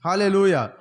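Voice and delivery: loud ringing Hallelujah; Hallelujah shout. Real, not acted. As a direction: punch it out to the room. Preacher's call to congregation.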